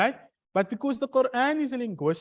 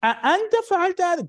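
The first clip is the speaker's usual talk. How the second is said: أأنت punched hard, higher, louder and fast; emphatic pronoun; 11 semitones higher, 6 dB louder, much faster than usual. Shown as a demonstration. Teacher showing the emphasized pronoun, أأنت hit hard. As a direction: slam the أأنت to stress the doer. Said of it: "you emphasize the doer".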